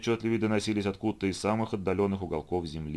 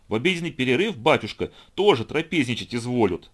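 snide mocking jab, louder, higher; sarcastic; 4 semitones higher, 6 dB louder than usual. A narrator's reading. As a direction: sneer at the priest's privileges. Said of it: "съязвил Петя".

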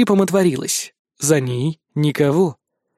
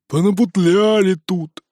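impatient; 3 semitones higher than usual. A narrator's reading. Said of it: "нетерпеливо засопел уставший Жорик".

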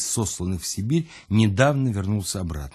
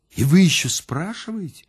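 high, incredulous retort; can you believe he asks that; indignant surprise; 8 semitones higher, 4 dB louder than usual. Acted. Louise retorting to the narrator, high and incredulous.

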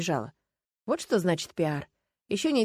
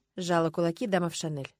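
plain reading voice

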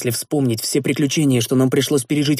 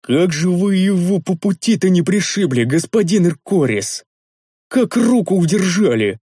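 ordinary delivery, nothing marked

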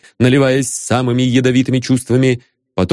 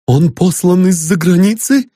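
breathless gasp; 7 semitones higher, 4 dB louder than usual. A narrator's reading. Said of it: "чуть не задохнувшись".

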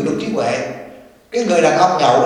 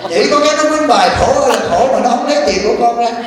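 laughing sarcasm; 4 semitones higher than usual. Acted. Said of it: "sarcastic refrain, laughing".

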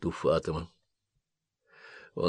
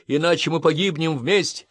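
gasping for air; 7 semitones higher, 4 dB louder than usual. Acted. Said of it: "хватая ртом воздух, крикнула Дженнифер".

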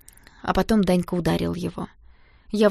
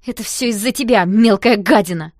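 spiteful outburst; 2 semitones higher, 10 dB louder than usual. Acted. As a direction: spit the insult out, louder at the end. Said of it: "вдруг бросила". (злобно и громко, с расстановкой)

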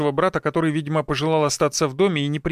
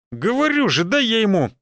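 impatient demand; 7 semitones higher than usual. Acted. Son pushing to fight.

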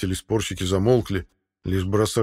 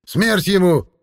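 furious cry; 12 semitones higher, 7 dB louder, slower than usual. A narrator's reading. Angry elder demands death.

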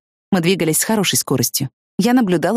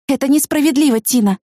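sharp rebuke; 9 semitones higher than usual. A narrator's reading. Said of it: "одёрнула я её".

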